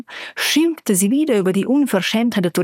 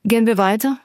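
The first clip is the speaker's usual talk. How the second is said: cool question; faster than usual. Acted. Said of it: "fragte ich kühl".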